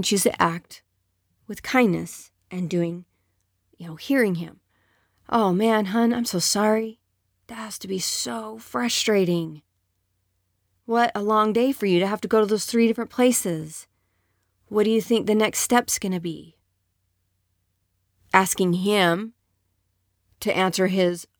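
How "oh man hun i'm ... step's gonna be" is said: kind response. Acted. Wife responding kindly.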